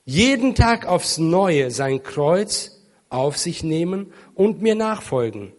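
loud, measured proclamation of scripture; solemn scripture reading. Real, not acted. Preacher reads Jesus' words to the congregation, loud solemn proclamation. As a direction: read the verse out with weight and deliberate pauses. Reads Bible verse aloud.

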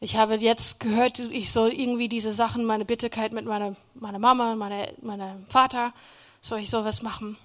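softly voiced surrendered prayer; humble prayer. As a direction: ask God quietly and humbly. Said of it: "ich hab dann angefangen zu sagen".

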